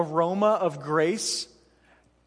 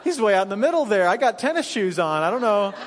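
flustered panic; 2 semitones higher, faster than usual. Retold or imitated. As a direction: babble it out like a helpless dad, half laughing. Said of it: "I'm like".

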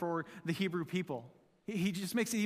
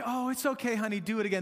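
mock sweet parent; 2 semitones higher than usual. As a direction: coo it like a gentle mom. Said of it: "This is not like".

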